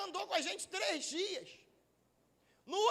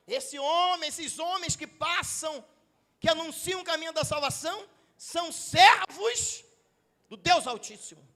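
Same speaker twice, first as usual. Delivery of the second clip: retold crying out; 5 dB louder than usual. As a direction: proclaim it loudly, swelling on "servos". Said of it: "e começou a gritar".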